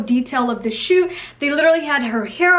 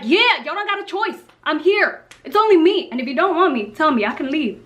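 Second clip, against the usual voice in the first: sassy inner monologue. Retold or imitated. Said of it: "I'm sitting there like".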